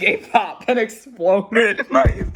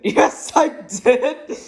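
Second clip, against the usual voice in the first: very slow, higher hammed-up bellow; shouting at top of voice; 7 semitones higher, 3 dB louder, much slower than usual. A narrator's reading. Mister Noisy bellowing at the butcher, hammed up. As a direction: draw it out as a big mock yell. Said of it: "shouted Mister Noisy at the very top of his voice".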